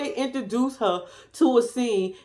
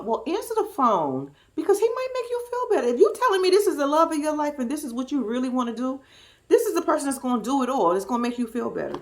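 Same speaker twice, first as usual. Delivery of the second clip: a higher, lightly voiced friend giving advice; friend's advice; 3 semitones higher, faster than usual. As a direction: play the pushy friend, a bit higher. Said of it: "So the friend said to her".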